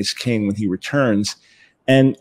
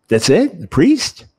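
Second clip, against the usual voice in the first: unimpressed Jewish dad; 7 semitones higher, 3 dB louder, slower than usual. Retold or imitated. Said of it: "the Jewish dad said".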